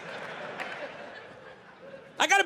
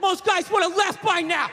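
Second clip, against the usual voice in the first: dad's catchphrase; 6 semitones higher than usual. Retold or imitated. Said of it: "That was one of his catchphrases".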